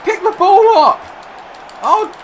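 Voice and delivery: high, loud yell of panic; frantic command shouted. Real, not acted. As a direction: scream the order at the screen. Screaming at a celebrating player.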